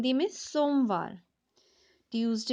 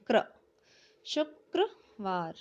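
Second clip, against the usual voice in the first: slow dictation; 3 semitones lower, much slower than usual. Shown as a demonstration. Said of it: "slow dictation reading".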